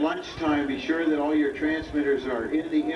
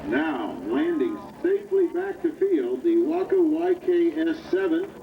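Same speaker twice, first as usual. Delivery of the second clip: upbeat PA announcer calling planes; airshow commentator. Acted. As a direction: call the flyby over the loudspeaker. Live air show commentary.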